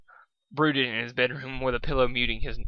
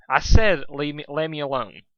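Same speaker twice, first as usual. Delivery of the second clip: shouting; 7 dB louder than usual. Acted. Shout then drop.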